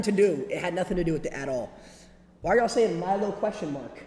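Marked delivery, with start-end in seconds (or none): 2.4-4.0 loud, high, slow exasperation; exasperated outburst. Real, not acted. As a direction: loudly plead with chat. Exasperated at chat comments.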